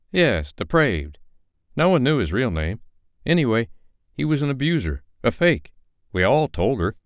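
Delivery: gossiping woman. A narrator's reading. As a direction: tell it with outrage. Female character voiced high.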